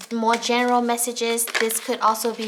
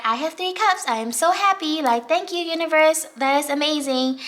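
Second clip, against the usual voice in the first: higher, bubbly mock delight; thrilled viewer thanking the universe, gushing; gushing happy; 4 semitones higher than usual. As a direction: gush like you can't believe your luck. Viewer voiced as content cat.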